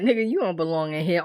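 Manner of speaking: mock-teasing, tossed off quickly; joking. Visitor ribbing a jailed friend, joking. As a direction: toss it off as a light jibe. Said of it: "Almost like a joke".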